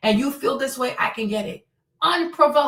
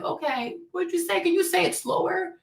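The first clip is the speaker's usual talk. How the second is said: polite request; 6 semitones higher than usual. Acted. Acting her own patient request to repeat.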